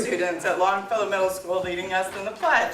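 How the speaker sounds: projecting to the back row; firm classroom announcing voice; teacher voice. Real, not acted. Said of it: "I can use my teacher voice?".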